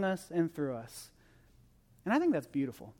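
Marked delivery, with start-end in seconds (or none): 2.1-2.9 low, soft, heartfelt appreciation; sincere admiration. Real, not acted. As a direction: let it sink down quietly, sincerely moved. Closing reflection on church's mission.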